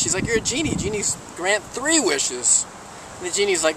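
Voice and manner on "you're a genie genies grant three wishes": higher-pitched, mildly indignant objection; mock protest. Man haggling with the genie over wishes, mildly indignant. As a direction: protest as if being short-changed, stretching the end.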